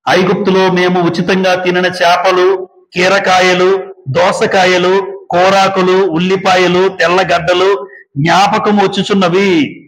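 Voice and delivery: slow, measured Bible reading; solemn scripture recital. Acted. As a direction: read the verse deliberately, word by word. Reads scripture aloud slowly.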